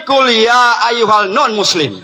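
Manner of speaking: the verse chanted jokingly with "non-Muslim" swapped in, ending in a laugh; mock version. Shown as a demonstration. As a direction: parody the recitation with a grin.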